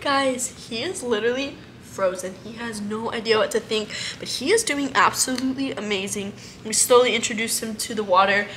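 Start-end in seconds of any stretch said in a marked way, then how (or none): none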